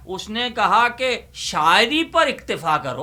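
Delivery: declaiming a ghazal couplet at a mushaira pace; poem recitation. Acted. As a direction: recite it to the audience, leaning on the punchline.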